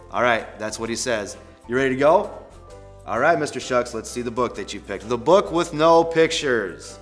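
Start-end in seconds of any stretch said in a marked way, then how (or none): 5.1-7.0 slow, louder title announcement; story read-aloud title. Acted. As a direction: announce the book title slowly and grandly.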